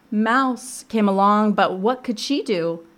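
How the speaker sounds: emphatic storybook narration, slow opening; picture-book read-aloud. A narrator's reading. Librarian bringing Mouse into the story, emphatic slow storytelling. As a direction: introduce a new character to small children.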